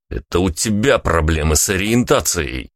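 ordinary delivery

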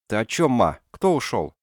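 high, loud startled question; alarmed. Acted. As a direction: ask fast, worried. Son alarmed at wounded mother.

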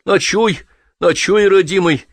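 woman welcomes Kravtsov with the same kindness; friendly. A narrator's reading. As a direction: welcome him sweetly like a grandmother. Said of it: "с той же приветливостью сказала женщина".

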